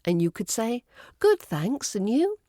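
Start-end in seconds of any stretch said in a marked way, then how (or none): 1.2-2.4 lightly cheerful checkout reply, pitched up; quick and cheerful. Shown as a demonstration. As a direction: answer brightly with a polite lift. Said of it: "You say it quickly and cheerfully".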